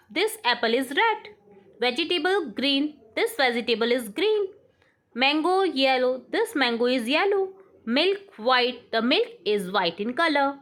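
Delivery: very slow, word by word dictation. Shown as a demonstration. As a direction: read it out slowly for the class to write. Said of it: "teacher dictates sentences". (धीमे-धीमे बोलकर लिखवाना)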